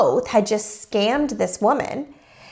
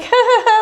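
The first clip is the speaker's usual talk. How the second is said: high, louder mock laugh; imitated laugh; 12 semitones higher, 5 dB louder than usual. Imitating him as she is put on the spot, high mock laugh. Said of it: "he's just like".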